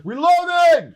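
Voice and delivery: very high, loud shouted "Reloading!"; hammed-up video game callout; mock reload callout. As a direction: call it out like a game soldier. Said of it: "I'm always like".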